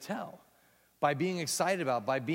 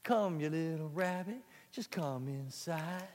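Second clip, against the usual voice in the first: cool version; 2 semitones higher, slower than usual. Shown as a demonstration. Teacher crooning the cool version while out of breath. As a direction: lean back and play it cool. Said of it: "the cool version".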